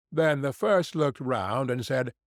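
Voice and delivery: ordinary delivery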